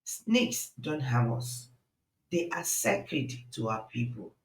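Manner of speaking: quiet insistence. Acted. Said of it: "he insisted".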